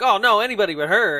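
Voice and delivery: fast, high panicked plea; mock panic. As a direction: blurt it out in a panic. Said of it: "He's like".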